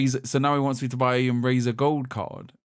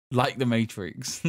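mock slow; much slower than usual. Mocking the scammer in a text reply.

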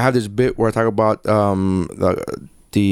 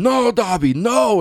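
mock dramatic plea; 10 semitones higher, slower than usual. Imagined sexy audiobook reading, acted.

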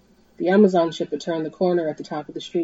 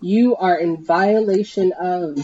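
blared; slower than usual. Acted. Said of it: "the helicopter blared".

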